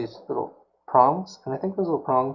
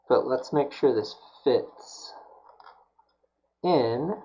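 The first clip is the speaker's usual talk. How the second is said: slow whispered check; slower than usual. Real, not acted. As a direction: hush it as you test the fit. Muttering to himself while working.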